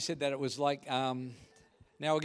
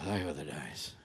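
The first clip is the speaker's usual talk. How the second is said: mock nostalgic sigh; 13 dB quieter than usual. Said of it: "I mean, John".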